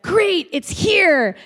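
playing it totally calm, drawn out; casual delivery of a boyfriend staying in character; cool in-character greeting. Boyfriend acting cool in role.

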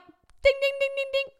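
rapid high-pitched dinging; imitated bell. Friend hears the genius plan, imitated winning bell. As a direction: ring out like a prize bell.

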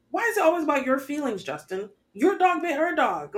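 exasperated scold. Retold or imitated. Scolding Justin in absentia.

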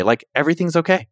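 lightly upbeat self-reassurance; okay, not bad. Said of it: "Not in a bad okay".

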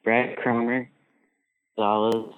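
breaking up over a poor phone connection; bad phone line. Real, not acted. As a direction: voice cutting out on a bad call. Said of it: "Man, your phone line".

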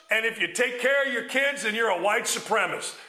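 ordinary talk

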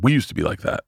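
retold offhand remark, understated; very casual. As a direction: toss it off casually, as if it's nothing. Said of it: "I said, very casually".

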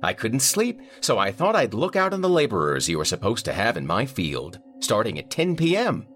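angry client. A narrator's reading. Vineyard owner complaining to the manager, irate. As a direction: demand answers, fed up.

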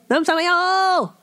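"Namsayo!" called out high as a cheery Korean hello; Korean greeting. Retold or imitated. Comedian greeting her husband: high cheery "Namsayo!". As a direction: sing out "Namsayo!" with a falling tune. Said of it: "That's how they say".

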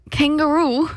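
tentative, badly faked Australian; attempted Australian accent. Shown as a demonstration. Co-host asked to do Australian, half-hearted accent. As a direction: have an unsure stab at an Australian accent. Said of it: "Can you do Australian?".

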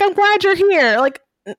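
lightly voiced awkward Brienne, tripping over words; flustered Brienne. Podcast host imitates a flustered Brienne tripping over her words. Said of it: "She's like".

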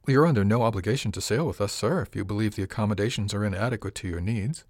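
measured, controlled reply holding back anger; forced level calm. Acted. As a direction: keep it even and polite through irritation. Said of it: "I tried very hard to keep my voice level".

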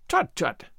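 brisk, dismissive tutting; mildly brisk old fellow. A narrator's reading. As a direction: wave the worry away briskly. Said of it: "said Mister Harrison briskly".

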